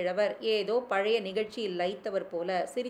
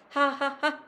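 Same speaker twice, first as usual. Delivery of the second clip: a higher cart driver's call to his oxen; 5 semitones higher, slower than usual. A narrator's reading. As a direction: urge the bullocks on with a call.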